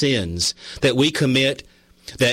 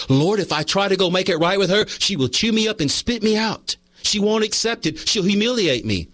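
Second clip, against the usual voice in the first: higher-pitched, mock-dread protest to God; retold dread; 6 semitones higher than usual. Pleading with God about facing his sister-in-law, retold dread.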